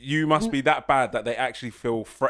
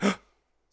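1 mock startled gasp; 6 semitones higher, 3 dB quieter than usual. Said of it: "David Attenborough type of scenario".

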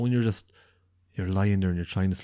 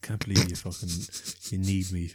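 playing up; 5 semitones lower, 7 dB quieter than usual. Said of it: "I did play up".

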